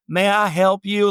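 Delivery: slow, lifted Southern-belle greeting; drawn-out "may I help you" in a Southern accent. Retold or imitated. Southern hostess greets a stranger at her door, genteel Southern accent. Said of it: "her sort of Southern accent".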